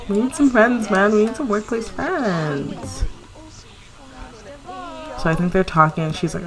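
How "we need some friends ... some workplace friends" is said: said through laughter, slowing down; laughing. Real, not acted. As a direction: talk while still laughing. Laughing while speaking.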